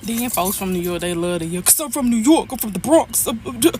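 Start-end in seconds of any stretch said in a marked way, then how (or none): 1.6-3.7 fast, stammering brag; mocking New Yorker brag. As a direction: imitate a New Yorker showing off.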